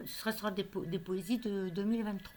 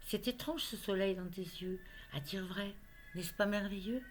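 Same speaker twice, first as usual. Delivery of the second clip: measured poetry reading with pauses between phrases; poem recitation. Acted. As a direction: recite a love poem line by line. Reads her love poem aloud.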